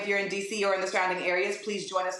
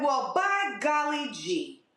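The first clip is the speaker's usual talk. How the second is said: slow, drawn-out exclamation of wonder; mock amazement; 3 semitones higher, much slower than usual. Activist reacting to the President's words on first responders, mock-amazed. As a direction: stretch out the feigned astonishment.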